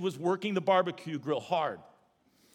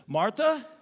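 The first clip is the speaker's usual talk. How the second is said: slow, calm, gentle correction; Jesus calmly correcting Martha; gentle rebuke; slower than usual. Retold or imitated. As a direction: lay it out slowly and kindly. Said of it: "he basically just says this".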